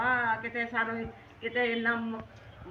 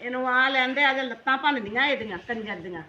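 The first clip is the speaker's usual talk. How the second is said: louder, a furious vow to break his legs; angry threat; 5 dB louder than usual. Acted. Mother vows revenge on her daughter's husband, angry and loud. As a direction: let rip at the son-in-law.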